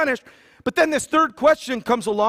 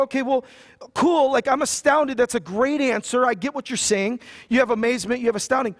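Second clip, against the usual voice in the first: light hammed-up amazement; mock impressed; 4 semitones higher than usual. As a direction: play it like you're impressed but missing the point. Listener reacts, mock impressed.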